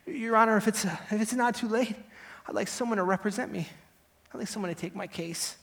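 a touch of desperation in a courtroom plea; desperate request. Acted. Defendant begging the judge for a lawyer, desperate request. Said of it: "I asked in desperation".

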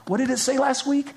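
ordinary delivery

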